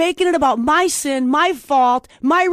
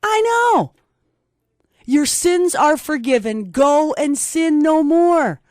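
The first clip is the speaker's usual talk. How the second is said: voice of God; slower than usual. Retold or imitated. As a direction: speak as a merciful God forgiving. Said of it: "he turns and says".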